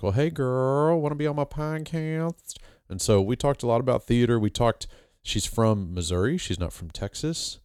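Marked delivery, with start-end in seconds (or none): 0.0-2.5 flirty invite. Retold or imitated. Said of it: "of course, I was like".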